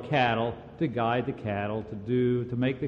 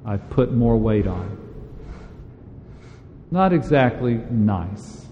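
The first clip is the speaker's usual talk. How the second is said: loud, driving sermon delivery, leaning hard on key words; fervent preaching; 7 dB louder than usual. Acted. Preacher urging the congregation, in a loud, insistent sermon voice. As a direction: preach it out to the congregation with full force.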